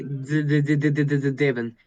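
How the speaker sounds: repeated tapped D leading into "Devin"; accented D demo. Shown as a demonstration. Showing Devin how to place the D, repeated D sound. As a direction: stutter out the D, then Devin. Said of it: "instead of putting your D".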